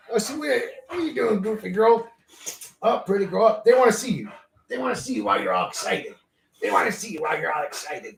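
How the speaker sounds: high, cooing puppy voice. Real, not acted. High baby talk to dog.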